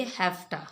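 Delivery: हैफ्टा, have to with an f sound, run together; casual spoken hafta; reduced hafta. Shown as a demonstration. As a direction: say हैफ्टा as one word, v turning to f. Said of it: "किस तरह pronounce करेंगे".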